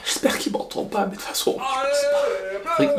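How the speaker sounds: unvoiced secret whisper. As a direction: whisper so he can't hear. Wife hides from husband.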